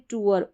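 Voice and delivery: टूअर with "oo" gliding into "uh"; "oo-uh" glide. Shown as a demonstration. Teacher models an example word, "oo-uh" glide. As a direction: sound both vowels in टूअर, "too-er". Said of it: "उ, अ करके इसका उच्चारण है".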